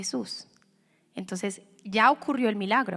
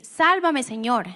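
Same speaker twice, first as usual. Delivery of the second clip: desperate cry; 2 semitones higher, 4 dB louder, slower than usual. Acted. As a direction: call out like a man who is going under. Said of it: "gritó".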